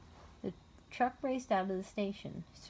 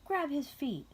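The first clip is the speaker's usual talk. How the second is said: shout; 7 semitones higher than usual. A narrator's reading. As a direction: snap him into action. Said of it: "shouted Missus Lamb Chop".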